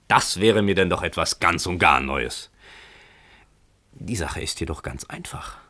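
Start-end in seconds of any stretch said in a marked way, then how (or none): 3.9-5.6 desperate cheerfulness. Acted. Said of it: "mit verzweifelter Heiterkeit".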